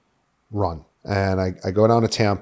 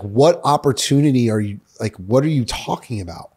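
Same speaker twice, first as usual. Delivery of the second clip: raised, exasperated mock questioning; retold incredulous challenge; 3 semitones higher, 3 dB louder than usual. Mia questioning his opportunity in Colombia, mock disbelief. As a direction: imitate a partner who isn't buying it.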